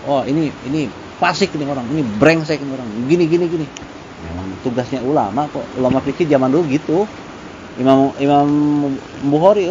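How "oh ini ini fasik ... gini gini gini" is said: mock scolding critic. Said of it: "Habib Rizik misalkan".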